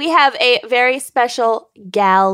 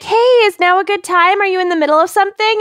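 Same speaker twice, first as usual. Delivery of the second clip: chirpy caller; 5 semitones higher, much faster than usual. Retold or imitated. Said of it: "she was like".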